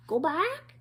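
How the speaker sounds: parrot squawk. A narrator's reading. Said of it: "she squawked".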